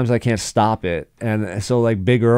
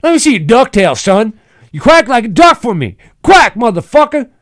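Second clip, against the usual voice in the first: high, loud hollering Southern road rage; angry Southern redneck; 12 semitones higher, 6 dB louder than usual. Pretend. S0 as Big Earl yelling at a driver who almost hit them. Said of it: "started getting, like, angry".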